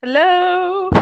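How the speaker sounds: calling out. Real, not acted. Calling into dropped call.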